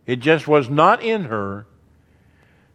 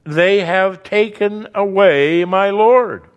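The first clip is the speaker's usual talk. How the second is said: grieving; 5 semitones higher, 4 dB louder, slower than usual. Acted. Mary's grieving words.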